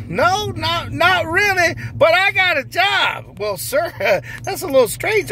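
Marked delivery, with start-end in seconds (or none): 0.1-3.4 high, slow, giddy voice of a man who just got a job; overjoyed new hire. Acted. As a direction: squeal it out like the happiest man alive. Character answers the interviewer.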